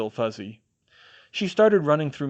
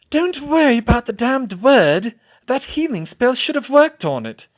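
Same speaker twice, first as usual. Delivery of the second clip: irritated; 12 semitones higher, 9 dB louder than usual. A narrator's reading. Hermione irritated.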